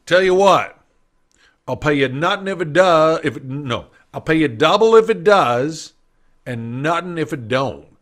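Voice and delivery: deal it out like a confident Texas oilman; Texas drawl. Retold or imitated. Texan locksmith offers double or nothing, Texas drawl. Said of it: "he had a bit of a Texas drawl".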